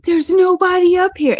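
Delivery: high-pitched quoted line; retold call. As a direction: pitch it up, imitating the character. Quotes Dewey in the scene.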